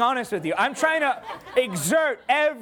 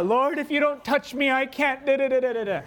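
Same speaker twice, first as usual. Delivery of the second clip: mock whiny prayer; 3 semitones higher than usual. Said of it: "the whiny Christian ones".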